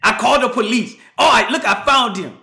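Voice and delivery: bustling demanding customer voice; imitating the Asian lady. Lady announcing she called police, mimicked high. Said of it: "my rendition of the Asian lady".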